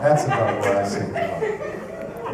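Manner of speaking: usual speaking voice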